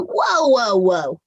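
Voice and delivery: lightly put-on cartoon pony voice; Dash. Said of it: "drop into Dash's voice".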